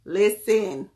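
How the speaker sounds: a punchy "Listen." to grab attention; emphatic. Real, not acted. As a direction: call the room to attention with "Listen.".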